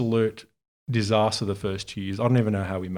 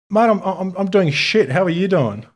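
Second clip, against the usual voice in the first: frustrated but charismatic; 8 semitones higher, 5 dB louder than usual. Retold or imitated. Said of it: "You could just see my frustration".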